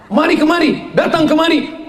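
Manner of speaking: loud, high summons; calling out. Acted. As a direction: call the others over from afar. Angel calling friends over.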